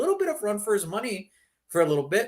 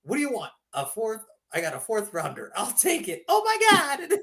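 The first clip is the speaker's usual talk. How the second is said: mock Flying Dutchman; 5 semitones higher than usual. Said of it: "like the Flying Dutchman".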